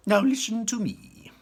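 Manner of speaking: high, loud order; high loud Wonka; Wonka commanding. Acted. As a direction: command the little man. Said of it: "said Mister Wonka".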